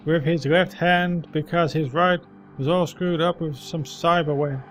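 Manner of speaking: put-on old man voice. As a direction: share a rumour like a street veteran. Old man tells what he saw.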